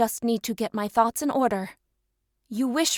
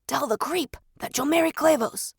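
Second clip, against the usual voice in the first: ordering; 4 semitones higher than usual. Acted. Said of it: "he ordered".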